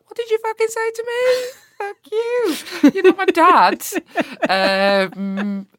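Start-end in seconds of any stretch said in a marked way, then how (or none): 0.1-3.9 high, loud and furious; furious retort. Retold or imitated. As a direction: snap back in outrage at a patronising minister. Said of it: "And I was just like".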